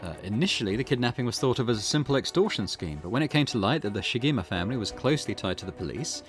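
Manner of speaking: measured, formal reading of a report; case file read-aloud. Acted. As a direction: read out the facts like a case summary.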